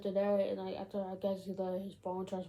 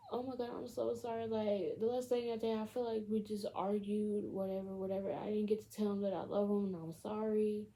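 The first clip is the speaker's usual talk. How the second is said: slightly raised, lightly acted regret; mock upset apology; 4 semitones higher than usual. Girlfriend regretting their last argument, mock upset apology. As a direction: imitate a grieving girlfriend, understated.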